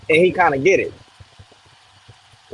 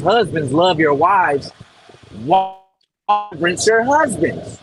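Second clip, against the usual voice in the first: quoting scripture; slower than usual. Acted. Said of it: "it says".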